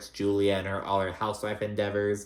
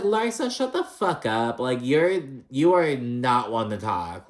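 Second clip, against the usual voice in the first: imitating telling Larsa off; 3 semitones higher than usual. Podcaster scolding Larsa through the screen, exasperated. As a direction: snap back at her, half joking. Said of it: "And I'm like".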